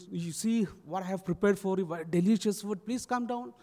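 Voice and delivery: coaxing motherly plea; pleading. Retold or imitated. Mother tempting her son down with food, pleading. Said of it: "she was pleading".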